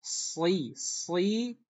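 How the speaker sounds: "si" with the s pushed toward z; demo of sad leaning to zai. Shown as a demonstration. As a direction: sad sounded close to zai. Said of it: "itu baca".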